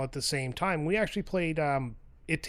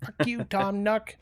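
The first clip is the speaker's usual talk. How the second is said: gamer rage; 5 semitones higher, slower than usual. Retold or imitated. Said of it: "Animal Crossing gamer rage".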